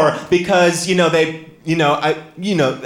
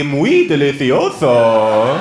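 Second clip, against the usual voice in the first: put-on slow, savoured Spanish accent; hammed-up Spanish accent; 4 dB louder, much slower than usual. Comic savouring the dish, showy Spanish accent.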